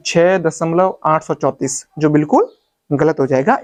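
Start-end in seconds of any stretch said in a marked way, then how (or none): 0.1-1.9 आठ सौ चौंतीस run together as one number; wrong reading demo. Shown as a demonstration. Teacher telling students what to avoid, demonstrated wrong reading. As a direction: read आठ सौ चौंतीस straight through. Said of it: "आप इसको ऐसे मत पढ़ना".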